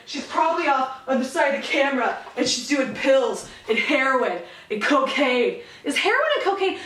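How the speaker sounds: giggling through a mock theory; laughing. Real, not acted. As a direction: laugh while spinning the rumor. Mocking conspiracy theory, laughing.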